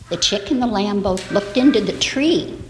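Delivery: put-on bright storyteller voice for little kids; reading to children. Storyteller reading an Easter tale to the children. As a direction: tell it gently like a bedtime story.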